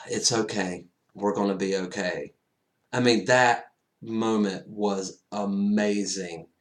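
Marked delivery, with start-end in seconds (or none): 0.1-2.3 soft reassuring comfort. Retold or imitated. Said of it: "Pepper just kinda".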